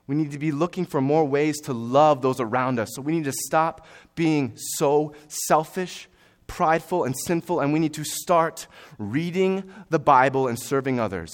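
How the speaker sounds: forceful, urgent sermon delivery; emphatic preaching. Real, not acted. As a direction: preach it hard, leaning on the key words.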